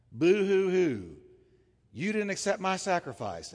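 hammed-up whiny boo-hoo; mock Cain's sulky sobbing; mock crying. Preacher mocking crestfallen Cain's whining, mock sob. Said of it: "who's sitting there crestfallen".

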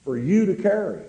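slow, deliberate words; slow and deliberate emphasis; said real slow. Real, not acted. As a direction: drag each word out for weight. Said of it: "I'm gonna say this real slow".

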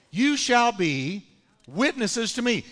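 You shall be, slowed and pressed, pitch rising; emphatic repeat. Shown as a demonstration. Preacher stressing the promise to the church. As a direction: slowly hammer home "You shall be".

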